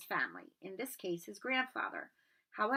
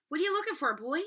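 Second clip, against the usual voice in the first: stern librarian; 7 semitones higher, 4 dB louder, faster than usual. Acted. Stern librarian challenges Harry.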